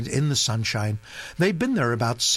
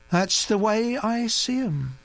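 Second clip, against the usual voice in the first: placid; 10 semitones higher than usual. Acted. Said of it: "said Naomi placidly".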